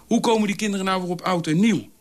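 hoog en luider uitvallend; val uit, verbijsterd; opgewonden. A narrator's reading. Dolf raakt opgewonden. (geërgerde uitval)

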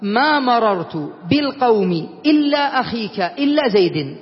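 slow, deliberate recital of the example. Shown as a demonstration. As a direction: read the example out slowly for the class. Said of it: "أن أقول مثلًا". (تلاوة بطيئة للمثال)

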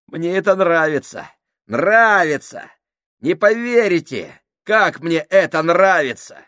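сильно выше и громче, с восторгом безумца; смакуй их страх как маньяк; безумный Крайчик. Acted. (Крайчик глумится над страхом товарищей, громко и безумно)

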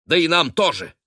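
barking rebuke. A narrator's reading. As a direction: bark the rebuke at the captain. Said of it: "рявкнул он".

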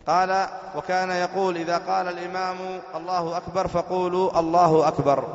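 formal reading from a book; reading the text aloud. Real, not acted. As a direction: read it out on a high, level tone.

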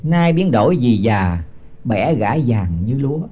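slow, measured chant of the verse; slow scripture chant before explaining it; slow verse recitation. Acted. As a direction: intone each syllable like scripture. Recites verse line slowly.

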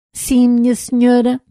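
an unsure robot answering politely; timid robot voice. Acted. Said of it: "numa voz baixa e insegura". (voz de robô tímido e inseguro)

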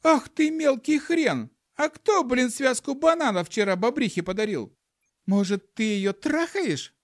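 outraged monkey wife yelling; shouted back. Acted. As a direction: scream it back at him. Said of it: "крикнула в ответ обезьяна-баба".

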